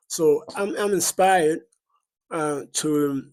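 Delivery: talking while chewing gum; words round a piece of gum. Real, not acted. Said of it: "excuse the gum".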